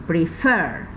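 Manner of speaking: Prefer, with FER drawn out and falling; stress on second syllable. Shown as a demonstration. Teacher repeating the verb for students, final-syllable stress. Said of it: "tiene la mayor fuerza de voz en la última sílaba".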